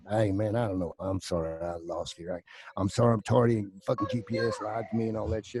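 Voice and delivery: an easygoing Texan making excuses; Texas accent. Acted. Actor apologising to casters for being late, in a Texas accent. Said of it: "I went in with a Texas accent the whole time".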